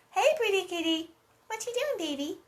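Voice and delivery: high sing-song coo to a pet. Real, not acted. Owner cooing at her kitty, high baby talk.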